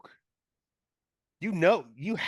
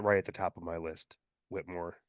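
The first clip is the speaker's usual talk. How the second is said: low, gravelly character voice; 6 semitones lower, 7 dB quieter than usual. Acted. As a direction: growl it out low and rough. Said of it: "do away with the gravelly voice".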